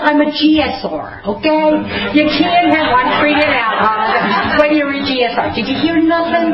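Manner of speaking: high, offended insistence; indignant protest. Retold or imitated. To her sponsor, insisting she works the program, indignant. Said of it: "I said".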